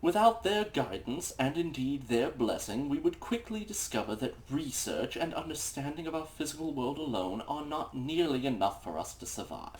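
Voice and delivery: haughty know-it-all reading; snooty voice. Acted. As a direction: read it like the smartest man in the room. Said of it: "in a snooty douchebag voice".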